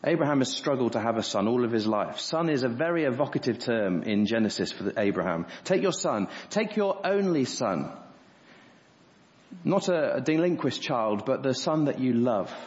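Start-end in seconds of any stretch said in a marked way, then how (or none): 5.6-7.9 "Take your son. Take your only son" higher and slower, stressing "only"; building emphasis. Shown as a demonstration. Preacher hammering the command home, building stress. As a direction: press harder each time on "son". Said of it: "there's great emphasis on all these words".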